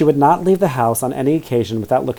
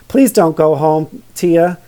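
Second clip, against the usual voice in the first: pleading; 3 semitones higher, 3 dB louder than usual. Acted. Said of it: "Vivian pleaded".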